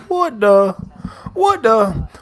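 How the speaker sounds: high-pitched bewildered double take; high, falling "what the?"; baffled. Real, not acted. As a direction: squeak it out in disbelief. Baffled reaction to a chat comment.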